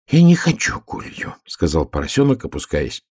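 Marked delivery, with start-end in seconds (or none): 0.1-1.4 put-on high, childlike refusal; high-voiced little piglet objecting; protesting piglet. A narrator's reading. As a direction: whine it like a stubborn piglet.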